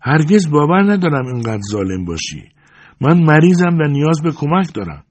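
high, pleading sorrow; sad voice. A narrator's reading. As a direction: plead sadly with someone who won't come. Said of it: "با صدای غمگینی گفت".

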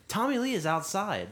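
high, loud breathless announcement; excited buddy. Retold or imitated. Buddy at the window telling the intern the star is here, high and excited.

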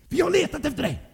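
gäll, uppjagad mamma i falsett; skäll med mycket hög röst; arg som ett bi. A narrator's reading. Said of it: "Hon var som ett bi". (arg, gäll mammaröst)

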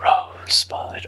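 slow breathy dying whisper. Retold or imitated. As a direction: breathe it out slowly like a last word. Quoting Citizen Kane dying whisper.

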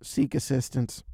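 flat, low, slow machine announcement; a lightly voiced robotic gate. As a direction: read it like an automated kiosk. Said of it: "I try again".

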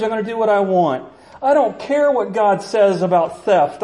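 mock-defiant rebel shouting down the law; defiant world. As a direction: sneer back at God like you own the place. The world defying God.

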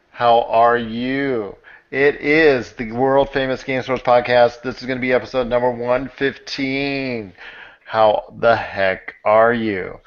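drawn-out, hosting announcer delivery; podcast show opener. Acted. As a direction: stretch out the greetings like a show host. Podcast host's opening announcement.

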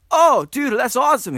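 high, loud dude-bro excitement; mock enthusiasm. Host replying to co-host's news, mock enthusiasm. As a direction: gush with exaggerated approval.

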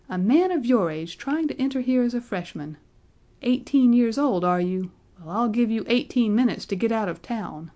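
high, loud scolding; angry shout. A narrator's reading. Registrar shouting Benjamin out of college, high and loud. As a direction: drive him out with mockery. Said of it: "he shouted".

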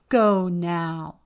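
loud curt command; ordering. Acted. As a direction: bark it out as an order. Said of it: "they ordered".

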